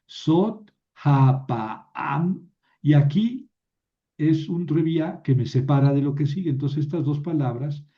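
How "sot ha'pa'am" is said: sot ha'pa'am drawn out very slowly as one unit, no break; joined words. Shown as a demonstration. Teacher slowly shows two words read together. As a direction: glide sot into ha'pa'am without a pause. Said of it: "lo junto con el que sigue".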